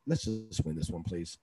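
soft, half-joking silent prayer; quiet retold wish to himself; inner plea. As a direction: plead under your voice, ending in a laugh. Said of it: "Inside, I was saying that".

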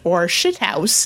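put-on slow, lightly done Irish accent; a hint of an Irish accent, drawn out. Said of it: "in this perfect Irish accent".

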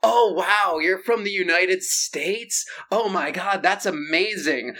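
a hint of a starstruck local; mock gushing. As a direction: gush like a starstruck fan. Romanian character gushes over America.

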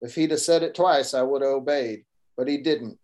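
a hint of a Texas cowboy narrator; Texas accent. Author reads his Texan hero's line in a Texas accent. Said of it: "So I do the little Texas accent for Stetson Jeff".

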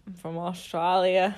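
lightly put-on Australian; Australian accent. Friend's unoriginal fake introduction, Australian accent. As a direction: introduce yourself in mock Aussie. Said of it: "Yeah, good one".

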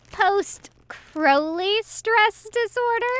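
high, slow, chuckling punchline; milk the joke while laughing; laughing at own joke. A narrator's reading. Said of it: "already laughing at his own joke".

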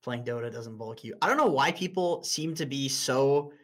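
ordinary delivery

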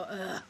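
low, soft mock groan; imitated disgusted groan. Host mimics guys hearing her second choice, mock groan. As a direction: quietly groan like an unimpressed listener. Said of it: "is gonna go".

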